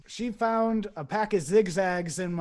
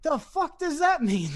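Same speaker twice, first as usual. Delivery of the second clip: high-pitched mock bewilderment; baffled disbelief; 9 semitones higher, 3 dB louder than usual. Man confused by the lion riddle, exaggerated bafflement. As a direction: act out being totally lost, voice jumping up.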